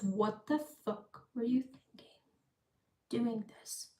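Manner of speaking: hushed British accent for a retold scolding; attempted British accent. Quoting her angry sister on the plane, British accent. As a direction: try a British accent, keeping it very quiet. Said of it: "gonna try to do a British accent".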